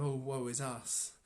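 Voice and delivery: slow, mock woe-is-us sigh; mock lament. Preacher mocking a gloomy church, slow mock lament. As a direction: play at self-pity, lightly. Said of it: "not as a kind of".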